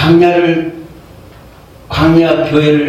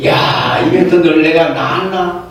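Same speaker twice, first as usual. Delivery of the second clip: exasperated Moses; 4 semitones higher than usual. Retold or imitated. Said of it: "모세가 화가 나는 거예요".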